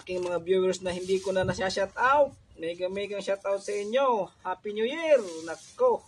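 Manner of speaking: loud, cheerful New Year shout-out; excited greeting. Real, not acted. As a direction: call it out happily to viewers. Masayang bati sa mga viewers. (masiglang pagbati)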